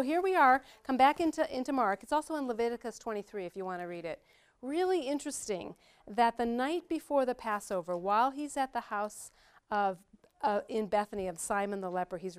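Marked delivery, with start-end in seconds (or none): none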